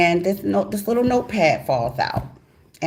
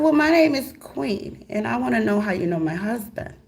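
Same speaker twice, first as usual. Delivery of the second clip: polite wife voice; 6 semitones higher than usual. Retold or imitated. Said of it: "I said".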